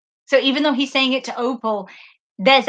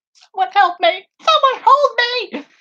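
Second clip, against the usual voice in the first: mock despair; 11 semitones higher, 4 dB louder than usual. Mock despair over beloved book.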